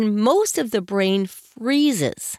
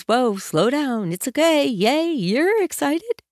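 mock calming down; 3 semitones higher than usual. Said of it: "they're a little pulled back from it".

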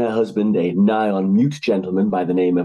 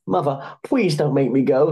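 put-on higher pleading boy's voice; begging son; 5 semitones higher than usual. A narrator's reading. Son begging his mother not to send him to sea, pleading. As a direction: beg like a frightened softy. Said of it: "he begged".

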